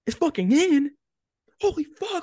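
very high-pitched celebratory yell; retold ecstatic screaming. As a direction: re-enact screaming your head off on the course. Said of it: "I'm screaming on the".

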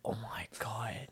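soft secretive whisper. Real, not acted. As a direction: hush it like a secret. Teasing secret girlfriend.

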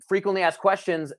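a light Boston accent on "frequently". Shown as a demonstration. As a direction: drop the r's Boston style. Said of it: "I gotta do it in the Boston accent".

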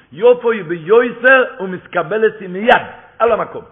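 loud, slow, drawn-out preaching cry; fervent preaching. Real, not acted. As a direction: proclaim it slowly with full force. Preacher stresses prayer is answered. (קריאה רמה ואיטית של דרשן)

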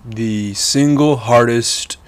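catching breath mid-sentence. Real, not acted. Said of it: "if I sound out of breath, I am out of breath".

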